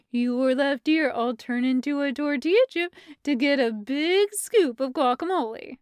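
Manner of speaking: lightly voiced doting weirdness; Stevie's weird baby talk. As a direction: relish it, half cooing, half deadpan.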